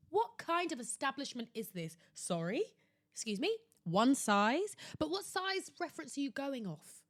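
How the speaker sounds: aghast, asking the store what it is thinking; incredulous inner voice. Retold or imitated. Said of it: "That alone made me think".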